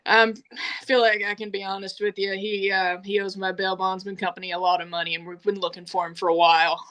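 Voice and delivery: imitated businesslike confession, even and quick; dropped-act voice. Bounty hunter explaining the debt, matter-of-fact voice. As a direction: speak levelly with the act gone. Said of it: "change in voice".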